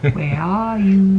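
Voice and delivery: put-on slow, loud child's call; toddler call. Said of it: "he's been saying".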